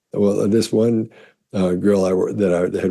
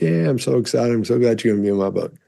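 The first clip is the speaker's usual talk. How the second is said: higher, gushing, rushed second line; gushing excitement; 4 semitones higher than usual. Retold or imitated. Author tells her friend about the book, gushing excitedly. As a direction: bubble over with delight at the news. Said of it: "I got all excited".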